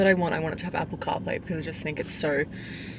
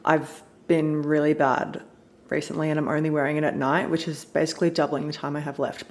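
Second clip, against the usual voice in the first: slight lisp from a retainer. Real, not acted. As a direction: talk around a retainer. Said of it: "sorry if you can hear me lisping".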